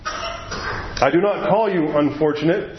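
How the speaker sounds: slow, lightly voiced lion; large voice. The lion answers Shasta's sorrows, slow and solemn. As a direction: weigh each word slowly, a hint of a great lion. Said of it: "said the large voice".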